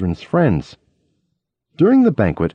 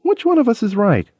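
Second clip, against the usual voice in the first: teacher's question; 10 semitones higher than usual. Retold or imitated. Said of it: "The school teacher asks".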